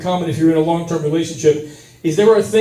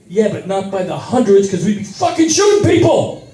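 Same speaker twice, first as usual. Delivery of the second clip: laughing, shouted tirade much higher; high pitched yelling rant; 7 semitones higher than usual. Retold or imitated. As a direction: rant back half laughing. Yelling back at American guy.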